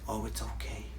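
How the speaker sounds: very soft, hushed reassurance; softly soothing an emotion that has come up; soft gentle master voice. Retold or imitated. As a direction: murmur it like comforting a frightened friend. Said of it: "beautiful, soft way of speaking".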